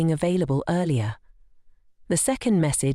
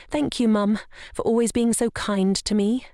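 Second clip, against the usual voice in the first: sarcastic; 6 semitones higher than usual. Acted. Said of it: "her voice laced with sarcasm".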